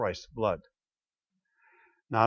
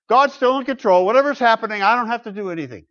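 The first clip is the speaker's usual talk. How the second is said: higher, quicker lazy shrug-off; mock resigned excuse; 8 semitones higher, 6 dB louder, faster than usual. Preacher imitating people waiting for the rapture, in a mock resigned tone. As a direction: brush it off, caring about nothing. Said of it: "people who throw up their hands".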